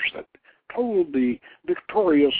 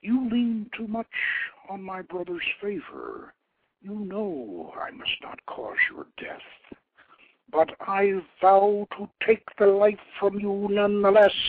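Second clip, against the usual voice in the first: higher, proud and stern goddess of war; lofty goddess voice, higher and stern; 8 semitones higher, 3 dB louder than usual. A narrator's reading. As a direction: scold the king from above like a goddess. Anath vows revenge.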